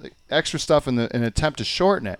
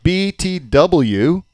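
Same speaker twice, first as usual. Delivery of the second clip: "B T W" drawn out very slowly, higher and louder; counting syllables; 5 semitones higher, 6 dB louder, much slower than usual. Shown as a demonstration. Dad proving the short form is longer, "B T W" slow and emphatic. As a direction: sound out every syllable of "B T W". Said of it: "How many is that?".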